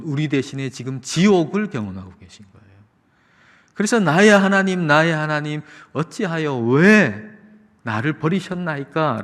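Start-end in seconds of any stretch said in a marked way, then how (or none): 4.0-9.2 imitated anguished cry to God, raised at the start; mildly dramatized outcry. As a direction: call out Jesus' plea, stretching the 'why'. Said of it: "라고 외치시는 거죠".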